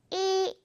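"이" with lips pulled wide, long; smile vowel. Shown as a demonstration. Teacher showing students the smiling ee vowel. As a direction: spread the lips and hold "이". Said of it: "이렇게 발음해주는 겁니다".

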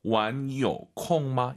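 "완요, 콩마" with "요" kept from rising; no upward swing on "요" in "완요, 콩마"; low tone on 요. Shown as a demonstration. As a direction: lift "완", then keep "요" low before "콩마". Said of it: "요는 올라가면 안 되죠".

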